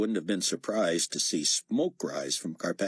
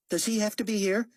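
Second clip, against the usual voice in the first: Carpathia voice; 3 dB louder than usual. Acted. Carpathia voiced character line.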